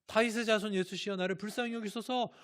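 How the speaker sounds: imitated high-pitched pleading call; crying out. Blind beggar calls to unseen Jesus, crying out in imitation. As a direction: act out a blind man's urgent plea. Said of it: "안 보이니까 소리를 질러요".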